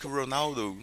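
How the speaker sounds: "Ronaldo" with an English R, ending in "oh"; English pronunciation. Shown as a demonstration. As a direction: imitate the English way of saying "Ronaldo". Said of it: "in English, we pronounce it slightly differently".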